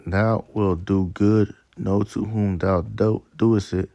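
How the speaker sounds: slow, measured reading of verse; scripture reading. Acted. Preacher reading Sirach to his listeners, slow scripture reading. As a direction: read it out deliberately, phrase by phrase.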